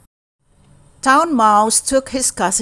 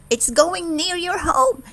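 higher, excited announcement; excited cry; 9 semitones higher than usual. Acted. Town Mouse telling his cousin about the hamper, excited cry. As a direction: tell him the good news, excited. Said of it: "he cried to his cousin".

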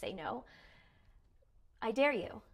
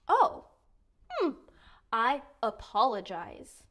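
bright oh. Shown as a demonstration. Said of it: "So we might even go".

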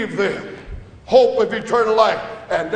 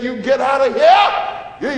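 commanding shout; 2 semitones higher, 4 dB louder, slower than usual. Acted. Jesus driving out money changers.

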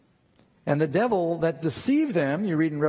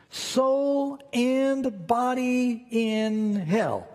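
slow emphatic scripture reading; 4 semitones higher, slower than usual. Acted. Reading Christ's words emphatically.

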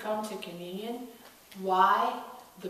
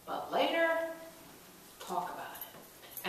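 secretive; 8 semitones higher, 3 dB quieter, slower than usual. Acted. Jesus secretive aside.

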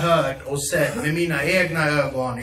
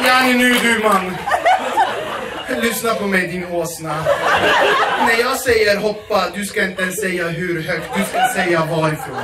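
shouting back; 5 dB louder than usual. Retold or imitated. Girlfriend yelling back at her boyfriend on the square, loud. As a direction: yell back at him, bossy. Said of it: "Och hon bara".

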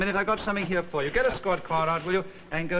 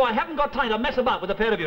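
irritated snap; 5 semitones higher, faster than usual. Acted. Sergeant snaps, fast and loud.

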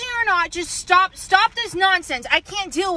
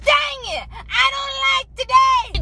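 frustrated crying shout; 7 semitones higher, slower than usual. Acted. Kid's recurring frustrated outburst.

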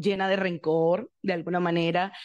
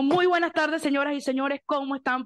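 higher, bright host opening; stage announcer greeting; 5 semitones higher than usual. Retold or imitated. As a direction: greet the bus like a show host. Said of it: "y dijo". (saludo de presentadora)

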